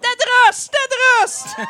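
very loud, high creature shriek; abominable creature's cry. A narrator's reading. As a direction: screech it from the shadows like a monster. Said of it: "cria un être abominable qui se cachait dans l'ombre". (cri strident de créature abominable)

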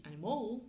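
"animal" in English with the stress wrongly on the end; accent mal placé. Shown as a demonstration. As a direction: misplace the stress onto the last syllable of "animal". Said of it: "ça va être un petit peu plus compliqué pour eux". (« animal » anglais mal accentué, sur la fin)

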